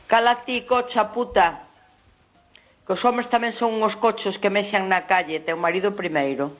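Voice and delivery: hammed-up rage of a rude neighbour; retold furious yelling. Neighbour hurling insults at the caller, imitated yell. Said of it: "pero más así".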